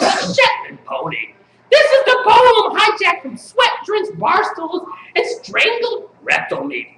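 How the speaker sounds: emphatic, chanted spoken-word delivery; incantatory slam-poem reading; poetry recital. Acted. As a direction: declaim each line as a mock-serious poet.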